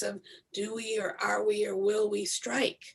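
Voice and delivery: hushed whisper. Real, not acted. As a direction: drop to a secret whisper. Voicing a hushed tension.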